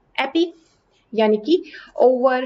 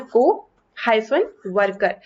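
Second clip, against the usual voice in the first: slow careful reading; 2 semitones lower, slower than usual. Shown as a demonstration. Teacher slowly reads co-worker part by part, to avoid misreading. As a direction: read को हाइफन वर्कर slowly, each part apart. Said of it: "तो इससे बचने के लिए हम क्या करते हैं".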